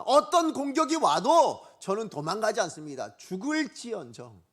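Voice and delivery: loud, emphatic pledge of loyalty; Peter's defiant vow. Acted. Preacher acts Peter protesting to Jesus, defiantly resolute. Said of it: "베드로가 뭐라고 대답했느냐?".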